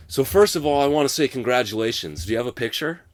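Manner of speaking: the coach abruptly turning nice to the player; mock sudden friendliness. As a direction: flip to an over-sweet coach.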